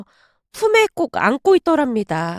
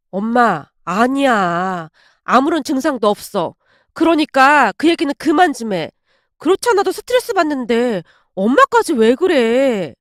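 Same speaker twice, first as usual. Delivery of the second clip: mildly peevish brush-off; a touch of irritated protest; curt, grumpy. Acted. Daughter brushing off mother's talk of a conception dream, curt and grumpy. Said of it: "제가 퉁명스럽게 말하고는".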